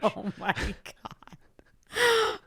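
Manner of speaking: high, slow amazed gasp; stunned disbelief; surprised. Real, not acted. Shocked Club Med is French.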